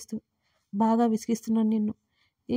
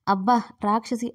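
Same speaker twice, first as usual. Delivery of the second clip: a sudden ouch, a bit louder; pained yelp; 4 dB louder than usual. A narrator's reading. Husband bitten on the chest by his wife, a sudden pained yelp. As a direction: yelp after being bitten, half laughing. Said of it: "కాస్త గట్టిగానే అరిచాడు".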